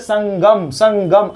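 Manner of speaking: संगम said as "sang-gam", nasal ng held; careful ng sound. Shown as a demonstration. Teacher shows how the word is read, careful pronunciation. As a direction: split संगम in two, sounding ng before gam. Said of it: "हम लोग पढ़ते तो बोलते हैं".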